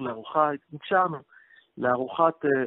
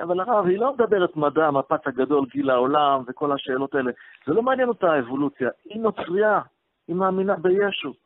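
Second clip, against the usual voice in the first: louder and higher, objecting hard; retold protest; 7 semitones higher, 6 dB louder than usual. Groom protesting to the rabbi that she is Christian, loud and higher. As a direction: push back loudly against the rabbi.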